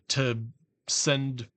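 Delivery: talking through hiccups; hiccuping. Real, not acted. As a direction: hiccups breaking the words. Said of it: "Sorry, I'm hiccuping".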